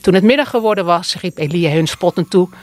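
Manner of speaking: measured, solemn scripture reading; Bible reading. Acted. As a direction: read the Bible passage aloud to the congregation. Voorlezen uit de Bijbel. (plechtig voorlezen uit de Bijbel)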